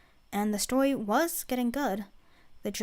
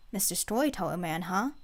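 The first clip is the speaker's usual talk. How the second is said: smirking; 4 semitones lower than usual. Acted. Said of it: "Yuri smirked".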